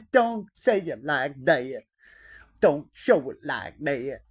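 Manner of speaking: slow, stretched-out prohibitions; mock business instructor. Business course teacher saying what not to do, mock instructor voice. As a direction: lightly parody a coach laying down rules.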